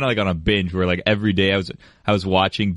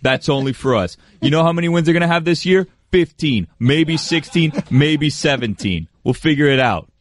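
lightly played boastful superfan, higher pitched; Miami bro; 4 semitones higher than usual. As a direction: build the brag like a Miami bro. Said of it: "the Miami Bro character".

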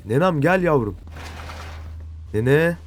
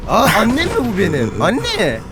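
panicked yelling; 11 semitones higher, 4 dB louder than usual. Real, not acted. Monster finds him.

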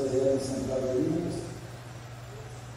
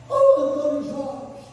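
calling out across a field; 9 semitones higher, 3 dB louder, slower than usual. Retold or imitated.

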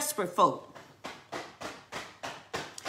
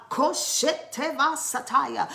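slow ecstatic tongues, a little higher; speaking in tongues; 4 semitones higher than usual. Real, not acted. Preacher breaking into tongues mid-sermon. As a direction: pour out the tongues slowly.

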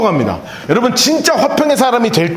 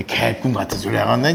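scoffing; 13 semitones lower, 7 dB quieter than usual. Retold or imitated. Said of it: "뭐라 그러겠어요?".

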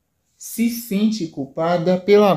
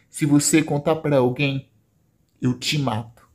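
low menace; 4 semitones lower than usual. Acted. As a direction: drop the voice to menace her. Caio threatens sister.

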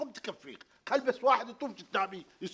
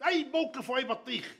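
exasperated retort; 5 semitones higher than usual. Acted.

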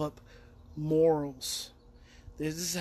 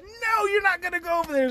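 insistent command; 10 semitones higher, 6 dB louder than usual. Retold or imitated. Forbids friend, urgent.

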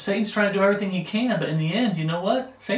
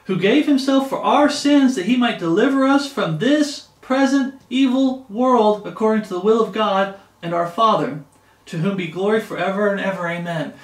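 higher, louder verse proclamation, easing down to the amen; scripture reading; 3 semitones higher, 4 dB louder than usual. Acted. Preacher reading Galatians to the church, proclaiming scripture. Reads scripture aloud to listeners.

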